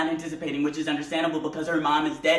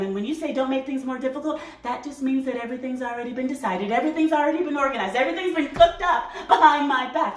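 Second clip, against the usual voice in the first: aggrieved tirade; 6 semitones higher than usual. Acted. Mother accusing her son of plotting, mounting grievance. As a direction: work yourself up into wounded indignation.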